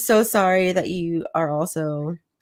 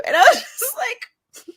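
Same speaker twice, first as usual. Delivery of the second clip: laughing through words; 13 semitones higher than usual. Real, not acted. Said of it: "laughing while telling".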